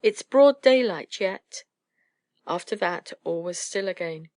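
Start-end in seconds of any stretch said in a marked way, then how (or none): 0.0-1.6 higher-pitched hushing mother; insistent, high motherly hushing; mother owl. A narrator's reading. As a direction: shush the little ones back to sleep. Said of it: "he heard the mother owl".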